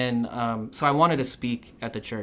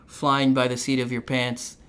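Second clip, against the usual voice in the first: lightly voiced aunt; 3 semitones higher, 4 dB louder than usual. Quoting the aunt's praise.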